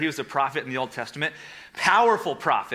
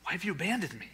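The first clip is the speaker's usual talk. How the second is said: anguished cry; 6 dB quieter than usual. Acted. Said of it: "Jesus calls out".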